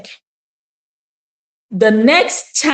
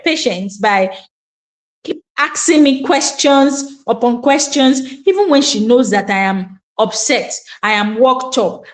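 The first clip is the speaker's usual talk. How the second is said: ordinary talk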